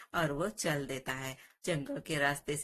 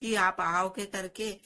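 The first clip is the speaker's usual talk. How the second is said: pleading cry; 3 semitones higher than usual. Acted. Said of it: "रोने लगता है और जोर से बोलता है".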